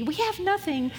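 a little whiny. Retold or imitated. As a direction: whine it a touch, like a complaining student. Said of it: "it's a little whiny maybe".

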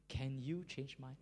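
quietly retold plea; simple prayer. Preacher repeating the prisoner's plea to God, soft simple prayer. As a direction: ask it softly, as a simple prayer. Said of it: "He just say".

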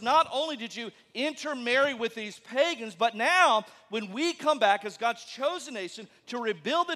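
voiced Jews scolding their enemies; accusing rant. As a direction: list the grievances with rising anger. Jews confronting Samaritans, acted quote.

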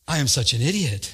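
self-mocking, with a laugh; laughing at himself. Real, not acted. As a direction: laugh it out, calling himself a fool. Mocking himself over the mistake.

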